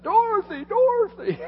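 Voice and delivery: high, loud teasing call; joking shout. Retold or imitated. Pastor joking to John in the storm, loud call. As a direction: call out like someone is blown away. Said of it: "I drove past John and said".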